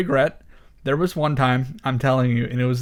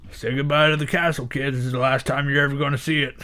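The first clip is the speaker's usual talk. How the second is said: menacing father voice, fast; scary dad voice; faster than usual. Retold or imitated. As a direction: say it like a cold, cruel dad. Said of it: "That was a scary voice you just did".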